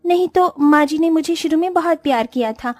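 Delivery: lightly voiced bride realising her mistake; remorseful young bride. Vedika voiced, regretful.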